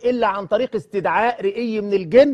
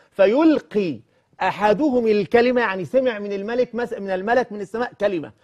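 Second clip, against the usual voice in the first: slow solemn quoting; much slower than usual. Acted. Quotes hadith and Quran recitation-style.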